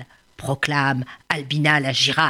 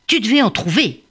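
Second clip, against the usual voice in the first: a high, rough-edged bully's voice; rhino bully; 5 semitones higher than usual. Acted. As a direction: threaten the little bird.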